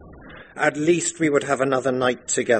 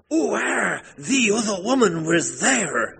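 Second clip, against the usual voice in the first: much higher, odd voice for the village idiot; simple-minded Ben; 11 semitones higher than usual. Acted. Ben the idiot babbles about Rebecca to the wife, high and odd. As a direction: play the idiot with a high, strange voice.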